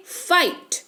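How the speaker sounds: "फाइट" said slowly with a clear आइ glide; pronunciation demo. Shown as a demonstration. Teacher shows learners how fight is read, slow demo. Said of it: "पढ़ते हैं फाइट".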